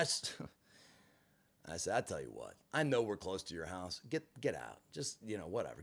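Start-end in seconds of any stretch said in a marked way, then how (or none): 2.0-5.8 much lower, softer dismissal; quiet and cold. Retold or imitated. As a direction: drop it low and quiet, done with her. Quietly telling her to get out.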